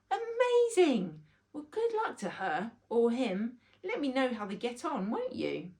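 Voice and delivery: put-on high loud child's exclamation, then casual; a boy cheering for someone else; amazed boy. Rory not realizing he is chosen, high amazed child.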